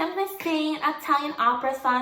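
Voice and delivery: put-on high teenage self. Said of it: "I had a higher voice".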